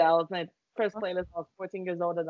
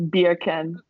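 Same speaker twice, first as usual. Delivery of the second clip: "Beer can" said to sound like bacon in a Jamaican accent; mock Jamaican accent making "Beer can" pass for bacon; 5 dB louder than usual. Shown as a demonstration. Host showing a friend the beer can trick, Jamaican accent. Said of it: "saying bacon in a Jamaican accent".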